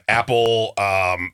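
chewing while naming flavors; mouth full. Real, not acted. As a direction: talk through a mouthful. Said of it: "I love that Crisco's eating it".

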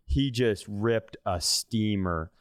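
usual speaking voice

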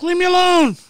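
high, loud mock yell back. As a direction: shout it back at the cops, hammed up. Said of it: "I'm like".

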